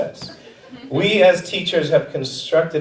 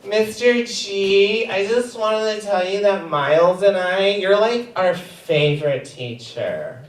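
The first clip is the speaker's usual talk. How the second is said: a hint of a little girl, higher; sweet little kid speaking up; mild child voice; lightly voiced kid; 5 semitones higher, 3 dB quieter than usual. Kindergartner voiced in story.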